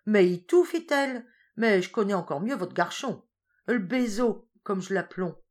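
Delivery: put-on old farm wife chatting from the roadside; old peasant woman. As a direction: answer back brightly in patois. Mother Heurtault voiced in patois.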